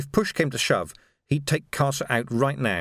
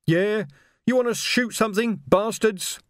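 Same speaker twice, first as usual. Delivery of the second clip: defiant taunt; 9 semitones higher than usual. Acted. Reg waving the flag at Carcer's men, shouted taunt. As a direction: dare them to shoot.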